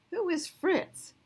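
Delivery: high, slow baffled question; puzzled dog. Acted. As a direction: drag it out, truly confused. Dog puzzled by wrong name.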